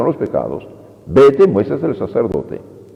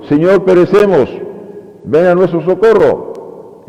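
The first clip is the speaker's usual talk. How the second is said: high, urgent plea for rescue; pleading cry; 7 semitones higher than usual. Retold or imitated. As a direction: beg the Lord to save them, voice up. Apostles plead in the storm.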